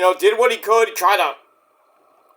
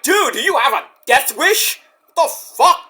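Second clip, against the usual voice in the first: laughing disbelief; 7 semitones higher than usual. Real, not acted. Disbelief at Hook's taunt.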